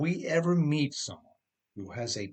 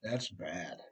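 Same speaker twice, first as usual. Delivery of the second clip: Ed's reaction; 6 semitones lower, 4 dB quieter, slower than usual. Acted. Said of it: "and he says".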